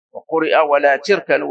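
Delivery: تركنوا with an "i" after the t; kasra reading. Shown as a demonstration. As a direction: say تركنوا as "tirkanu". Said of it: "ولم يقل بالكسر".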